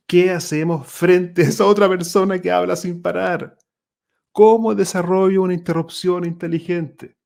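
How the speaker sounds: loud, high-pitched rhetorical questions; big projected appeal, pitched well up; calling out. Acted.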